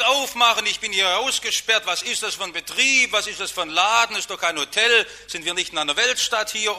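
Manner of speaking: high, loud indignant yelling; angry shouting. Retold or imitated. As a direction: bang on the door and yell. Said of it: "und schreit".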